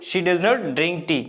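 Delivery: very slow, word by word; slow teacher dictation of she does not drink tea. Shown as a demonstration. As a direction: spell it out slowly for learners. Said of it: "negative".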